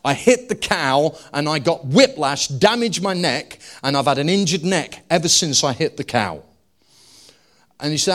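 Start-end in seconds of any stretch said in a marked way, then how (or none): 0.0-6.4 retold woman's story. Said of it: "she had quite a strong Texan accent".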